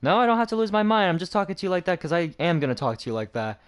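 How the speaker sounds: high, quick retold comeback; defiant backtalk. Student arguing back at administrator, retold defiance. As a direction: fire back fast, re-enacting the argument.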